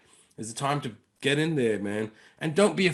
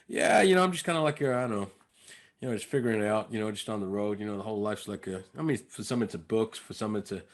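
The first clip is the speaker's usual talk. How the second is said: improvised American character; 4 semitones lower than usual. Retold or imitated. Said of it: "improvising as this character".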